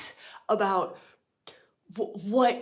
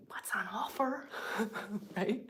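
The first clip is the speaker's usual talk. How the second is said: teasing whisper; 2 semitones higher, 8 dB quieter than usual. Real, not acted. Whispered tease.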